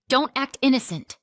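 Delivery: loud, high accusing snap; snapped. A narrator's reading. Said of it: "Jenna snapped".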